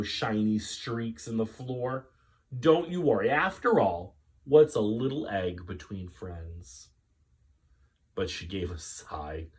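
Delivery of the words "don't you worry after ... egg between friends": strained reassurance. Acted. Missus Greenberg reassuring Rachel.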